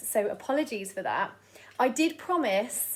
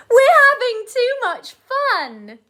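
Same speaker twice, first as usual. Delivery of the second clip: laughing guards; 13 semitones higher, 12 dB louder, slower than usual. Acted. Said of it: "just laughed and said".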